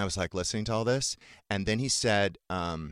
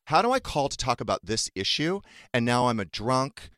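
higher-pitched, indignant disbelief; incredulous; 5 semitones higher than usual. Retold or imitated. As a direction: protest the absurd accusation in a raised pitch. I could not believe.

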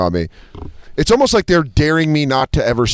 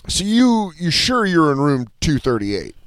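slow, stretched-out doubting question; drawn-out sceptical check; doubtful clerk; 3 semitones higher, slower than usual. Retold or imitated. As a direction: imitate an unsure clerk double-checking. Front desk doubting his room number.

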